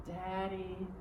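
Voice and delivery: soft, drowsy little call; barely awake, calling out; sleepy voice. Retold or imitated. Sleepy daughter calls to her father from the back seat. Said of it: "came a sleepy voice".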